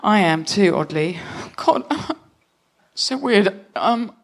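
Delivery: nervous husband unloading his worries to his wife, lightly voiced. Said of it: "make my voice a little bit lower".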